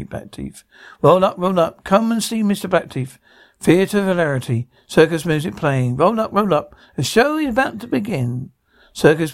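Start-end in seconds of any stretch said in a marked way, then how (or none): 1.0-4.7 lightly voiced fairground barker calling out; hint of a circus announcer; show barker. Acting a show's barker calling crowds. 6.0-8.5 lightly voiced barker, pitched a little up; a touch of circus patter; show barker. Acting a show's barker calling crowds.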